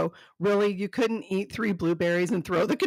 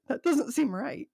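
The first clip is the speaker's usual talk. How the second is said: slow whispered aside; 4 semitones higher than usual. Real, not acted. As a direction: whisper it like a secret. Aside after reading a note.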